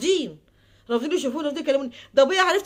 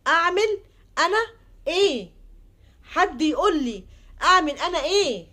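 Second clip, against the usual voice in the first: louder, higher, pleading; desperate outcry; 4 semitones higher, 3 dB louder, slower than usual. Real, not acted. Daughter begging listeners for advice, desperate louder outcry. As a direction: burst out begging for an answer.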